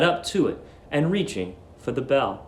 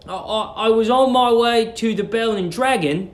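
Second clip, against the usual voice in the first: lightly voiced stammering Billy; 7 semitones higher than usual.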